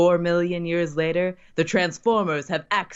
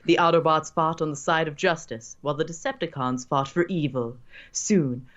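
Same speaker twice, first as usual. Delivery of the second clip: narrator voice. Acted. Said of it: "your best narrator voice".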